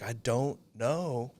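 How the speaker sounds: mock tearful agent. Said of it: "She's like".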